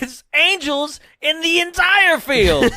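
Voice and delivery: high, loud whiny vendor; stadium vendor hawking. Pretend. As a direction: cry out as the vendor. Vendor bit again.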